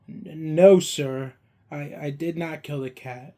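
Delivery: put-on a frightened boy mumbling his denial; timid. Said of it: "I said timidly".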